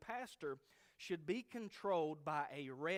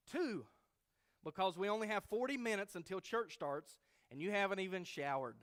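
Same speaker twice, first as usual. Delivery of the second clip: raised, insistent mother voice; 5 semitones higher, 4 dB louder than usual. Acted. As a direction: push him out of bed, pitched up. Mother insisting son get up.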